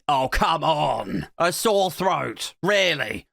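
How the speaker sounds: slow, drawn-out mock disbelief; brash dismissal. Hospital staff pushing back on patient, brashly dismissive. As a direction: stretch each word with exaggerated scepticism. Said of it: "they weren't that brash about it".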